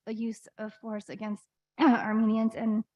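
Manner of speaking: throat catching mid-sentence; reading through a tickle in the throat; choking. Real, not acted. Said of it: "sorry, I'm choking".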